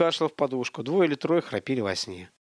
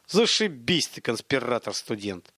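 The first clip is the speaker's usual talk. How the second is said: angry hiss. Acted. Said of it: "зло прошипел Столяров".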